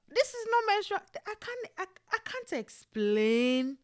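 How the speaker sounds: high, loud cry of disbelief at the pain; overwhelmed outburst. Retold or imitated. Telling friends about labor pain, high loud outburst. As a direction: burst out, the pain beyond words.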